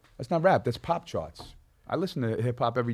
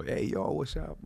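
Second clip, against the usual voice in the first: breathy hey yo then a higher what's up; mock white rapper greeting; 5 semitones higher, 5 dB quieter than usual. Rapper mocking how white rappers talk. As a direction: toss off a hammed-up rapper hello. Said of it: "All white rappers do that".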